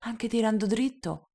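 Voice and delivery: high start, fading wistful; little prince, faintly melancholic; touch of melancholy. Acted. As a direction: let it drift a little sadly. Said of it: "un po' malinconica".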